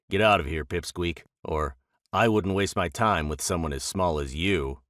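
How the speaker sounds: lightly voiced gruff bison. Bison growling back at Rabbit.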